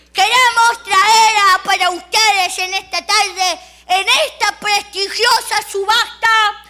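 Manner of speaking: high, slow, loud showman's pitch; pompous auctioneer. Retold or imitated. Auctioneer presents the auction, slow and pompous. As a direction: sell it grandly, stretching each word. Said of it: "Apareció un señor ... dijo".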